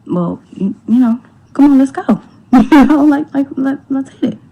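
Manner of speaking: rally the friend out the door; eager urging. Retold or imitated. Wife hurrying the friend out of the party, eager.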